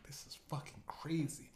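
whisper. Retold or imitated. Whispering to buddy mid-meeting.

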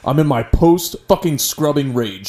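mock rage. Acts out friend's scrubbing rage.

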